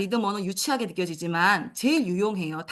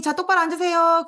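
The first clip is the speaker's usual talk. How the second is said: teacher command; 8 semitones higher, 6 dB louder than usual. Shown as a demonstration. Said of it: "선생님이".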